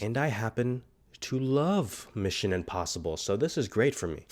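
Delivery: stuffy, blocked nose; congested. Real, not acted. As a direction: talk through a head cold. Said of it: "I sound so messed up".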